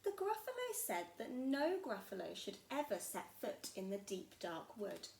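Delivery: put-on lively storybook narration for small children; story narration. A narrator's reading. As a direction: tell it like a bedtime story. Reads story aloud to children.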